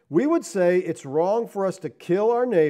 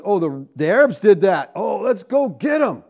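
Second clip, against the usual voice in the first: mock crowd voice; 3 semitones higher, 6 dB louder than usual. Mocking eager war crowd.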